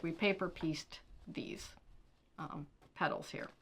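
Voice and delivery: whisper. Real, not acted. Aside while showing block.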